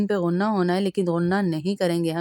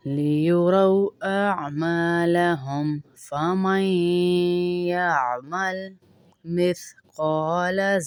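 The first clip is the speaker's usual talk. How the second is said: slow, drawn-out melodic tarteel; Quran recitation; much slower than usual. Shown as a demonstration. Teacher reciting the verse to students, slow melodic tarteel. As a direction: chant each word slowly and evenly.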